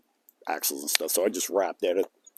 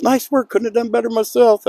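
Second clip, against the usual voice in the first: higher, louder impressed driver; wrecker driver; 14 semitones higher, 6 dB louder than usual. Retold or imitated. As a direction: praise it like an impressed trucker. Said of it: "He goes".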